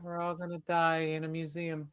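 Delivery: hushed mock despair; mock doom. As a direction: whisper it like certain doom.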